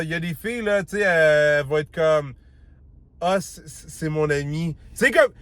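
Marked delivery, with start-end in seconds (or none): 3.2-4.8 softer, slow, hinting it's more than a friend; coy suggestive tone. Shown as a demonstration. Showing his friend how she hints, coy and soft. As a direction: let the words hint at a secret. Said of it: "tu vois comment je l'ai dit?".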